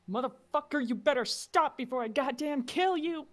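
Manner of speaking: loud, high-pitched threatening shout; full-force furious threat, loud and high; angry yell. Acted. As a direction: yell it out at someone running away. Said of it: "yell out".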